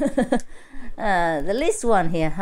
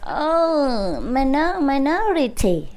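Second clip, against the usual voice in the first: drawn-out, higher-pitched mock lament; teasingly theatrical, swooping up and falling away; mock dismay; 4 semitones higher, slower than usual. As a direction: stretch out a playful 'oh dear' reaction. Mock reaction to few raised hands.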